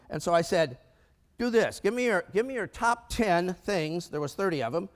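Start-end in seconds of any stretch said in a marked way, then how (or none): 1.4-4.1 retold directive.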